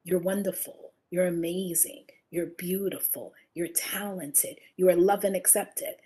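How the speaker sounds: soft, hushed, loving words; almost whisper it kindly; tender affirmation. Shown as a demonstration. Speaker showing listeners mirror affirmations, soft and tender. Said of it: "looking yourself in the mirror and saying".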